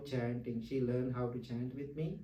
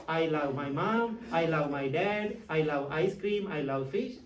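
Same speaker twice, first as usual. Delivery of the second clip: mocking people's I love; 5 dB louder than usual. Monk teasing his audience about the English word love, amused and loud. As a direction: rattle off everyone's I love lines as a joke. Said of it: "People use".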